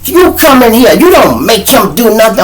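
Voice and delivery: high, loud imitated scolding; mad teacher. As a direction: put a student in their place, outraged. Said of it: "She got mad".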